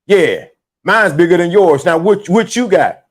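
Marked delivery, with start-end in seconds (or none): none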